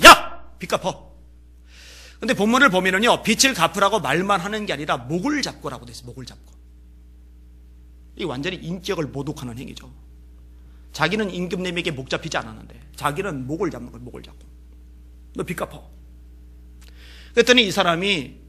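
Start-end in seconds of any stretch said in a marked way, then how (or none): 0.0-1.1 sudden sharp yell then a cold demand; cold snap. Retold or imitated. Preacher voicing the servant demanding payment, cold shout. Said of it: "목소리 톤이 달라져요. 쌀쌀맞게". 15.3-15.9 cold demand. Retold or imitated. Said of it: "목소리 톤이 달라져요".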